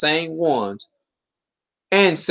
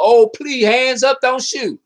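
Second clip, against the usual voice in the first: mock pleading; 6 semitones higher, 3 dB louder, slower than usual. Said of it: "white man being humble".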